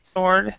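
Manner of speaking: "Sword" said as "sord", no W; silent W in Sword. Shown as a demonstration. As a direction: model the word "Sword" without any W sound. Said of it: "you do not pronounce the W".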